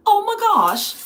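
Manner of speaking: high loud squeal of delight; excited squeal. Real, not acted. Reacting to a British viewer, high excited squeal. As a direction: shriek it with joy. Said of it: "I cannot mimic your accent".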